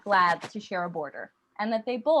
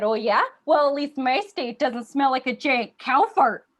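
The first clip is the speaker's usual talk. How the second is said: louder, defiant comeback; indignant retort; 4 semitones higher, 5 dB louder than usual. Acted. Minnesota arguing back at Wisconsin, indignant retort. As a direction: fire back as the offended rival state.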